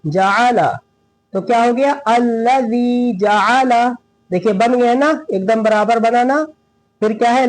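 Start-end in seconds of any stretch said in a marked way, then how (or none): 0.1-0.8 "जाला" in three short, even beats, falling; quick equal syllables. Shown as a demonstration. Teacher modelling the correct reading, short even "जाला". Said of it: "जल्दी पढ़ेंगे". 2.1-3.9 slow recitation, long "ज़ी" in "अल्लज़ी"; measured recitation. Shown as a demonstration. Teacher putting the phrase together, slow measured recitation.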